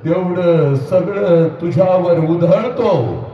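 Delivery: very slow, drawn-out words, starting hushed and low then swelling; anguished lament. Acted. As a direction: grieve over every word. Sorrowful slow climax.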